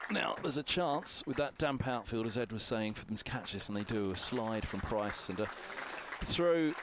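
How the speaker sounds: builds to a loud shout on throw; rising excitement. Real, not acted. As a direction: call the fielding chance, climbing to a shout. Live commentary, fielding chance.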